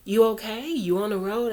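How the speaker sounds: concerned check-in. Retold or imitated. Sister phones to ask if she is on the road, concerned.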